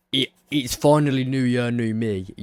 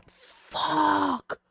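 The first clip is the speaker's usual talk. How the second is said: frustrated yelp. Real, not acted. Can't find suitcase.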